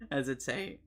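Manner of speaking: voice cracking. Real, not acted. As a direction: voice cracks on the word. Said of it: "oh, my voice broke then".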